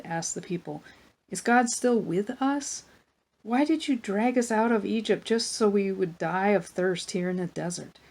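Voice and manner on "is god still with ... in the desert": mild yell. Acted. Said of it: "They yelled at Moses".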